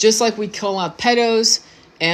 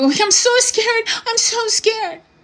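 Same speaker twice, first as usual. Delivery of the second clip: mock, very high, tearful sobbing cry; 13 semitones higher than usual. Retelling what a woman said while she was crying: imitating someone crying. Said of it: "And she was crying".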